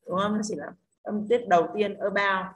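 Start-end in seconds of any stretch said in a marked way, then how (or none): 2.0-2.5 "about" with weak ơ, stressed BOUT; stress on second syllable. Shown as a demonstration. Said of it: "âm ao nhận trọng âm". (nhấn âm tiết hai "about")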